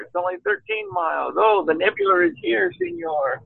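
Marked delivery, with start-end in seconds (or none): 1.4-3.4 high mock Spanish accent; Mexican accent. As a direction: ham up a Latino guide. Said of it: "Pedro was motioning".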